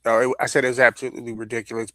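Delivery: fast, clear repeat for the listener; quick repeat. Real, not acted. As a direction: rattle it off again, quickly. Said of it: "What was that?".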